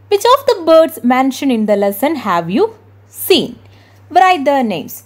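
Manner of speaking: very slow, deliberate English read-aloud; textbook reading. Acted. Teacher reading the English textbook aloud to her class, slowly. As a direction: read the book's question out word by word.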